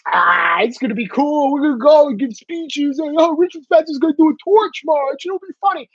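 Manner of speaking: breezy, mock-naive put-on voice; mocking carefree voice. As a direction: ham up the clueless enthusiasts. Mock voice of careless rally-goers.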